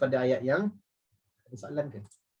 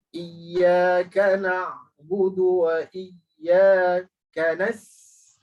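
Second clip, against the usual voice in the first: slow, chanted, a bit louder; Quran recitation; 2 semitones higher, 6 dB louder, much slower than usual. Shown as a demonstration. Teacher reciting the fifth verse for the class. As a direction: recite the verse slowly, drawn out. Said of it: "Sin yang sama macam bismillah".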